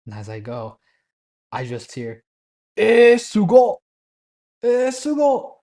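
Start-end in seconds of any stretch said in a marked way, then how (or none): 2.8-5.6 high, loud drawn-out marvelling; hammed-up wonder, pitched way up; imitated amazement. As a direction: imitate awestruck onlookers exclaiming. Onlookers marvel as narrator stirs natto.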